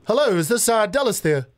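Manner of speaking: a hint of polite phone voice; client on the phone. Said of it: "I'm one of your clients right now and I'm calling you".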